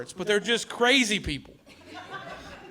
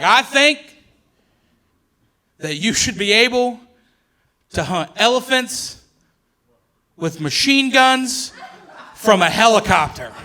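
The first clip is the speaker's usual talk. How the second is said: lightly voiced crazy guy, higher, slow and drawn out, ending in a shout; crazy expert guy; 3 semitones higher than usual. Comedian mimicking a crazy documentary expert, higher pitched and ending in a shout. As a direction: play the unhinged documentary expert, building to a yell. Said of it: "He's like".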